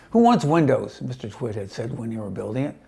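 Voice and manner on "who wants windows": grumpy scoff. Acted. Grumpy Mister Twit quoted.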